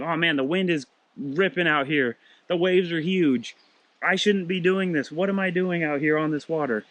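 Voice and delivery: a frightened disciple losing his nerve, a touch of panic; mild worried panic. Retold or imitated. Preacher voicing Peter's fear as he sinks, mild panic.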